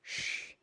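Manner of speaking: "sh" as a bare hissed sound, no voice; just breathe out "sh". Shown as a demonstration. Teacher showing how to say S C H, a bare hush sound. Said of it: "is pronounced as".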